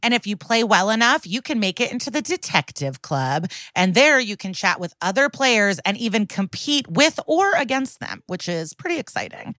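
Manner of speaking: upbeat game promo read. Acted. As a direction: pitch the game with lively emphasis. Podcast ad read.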